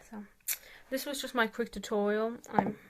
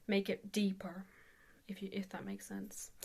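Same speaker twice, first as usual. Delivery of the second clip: whispering; 7 dB quieter than usual. Real, not acted. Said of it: "unvoiced whisper".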